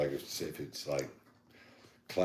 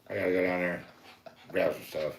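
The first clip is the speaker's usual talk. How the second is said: laughing southern imitation. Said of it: "southern accents that talk real fast".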